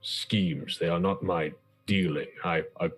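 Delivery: lightly voiced, deliberate counsellor; measured adventurer in council. Player speaks as a deliberating character.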